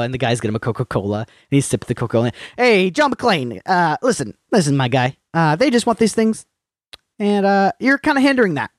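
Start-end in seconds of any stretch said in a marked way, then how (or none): 2.6-8.7 smug negotiator voice. Retold or imitated. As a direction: talk down to him like a smug schmoozer. Smug office guy voiced in retelling.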